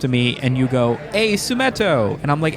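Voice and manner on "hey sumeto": high, drawn-out hello; hammed-up friendly call; fan greeting. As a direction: hail him like a fan spotting him. Acts fan greeting creator.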